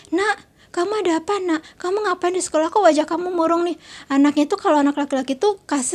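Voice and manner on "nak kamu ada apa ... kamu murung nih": worried mother. Retold or imitated. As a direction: gently probe a sulky son as his mother. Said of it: "ibunya langsung bilang gini".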